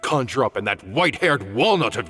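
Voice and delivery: a sharp, sarcastic dressing-down, pitch jumping on the questions; riled-up scolding. Acted. Master chewing out his reckless colleague, riled-up scolding. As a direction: chew him out like a stern old teacher. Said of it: "Master get this riled up".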